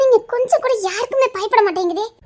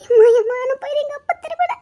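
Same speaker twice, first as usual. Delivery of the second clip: crying out; 7 semitones higher than usual. Acted. Wife crying out in panic.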